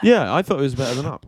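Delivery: fast unvoiced whisper, confiding; conspiratorial whisper. Shown as a demonstration. Admitting a controversial film opinion, in a quick whisper. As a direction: whisper it like a guilty secret. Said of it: "Controversial opinion".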